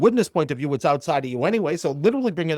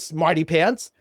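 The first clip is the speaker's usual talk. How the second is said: higher, louder retort; imitated huffiness; 7 semitones higher, 3 dB louder than usual. Client challenging his therapist, retold as huffy. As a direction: push back with mock indignation, pitch climbing. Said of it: "he got all huffy".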